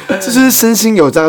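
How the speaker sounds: strained cracking insistence. Real, not acted. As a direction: voice breaking high on 是. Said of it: "原来是你有破音".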